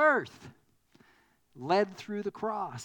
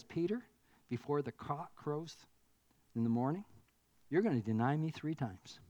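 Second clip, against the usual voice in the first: softer, lower, quietly certain; gentle Jesus; 3 semitones lower, 4 dB quieter than usual. Retold or imitated. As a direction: tell Peter softly what will come. Jesus gently foretelling Peter's denial.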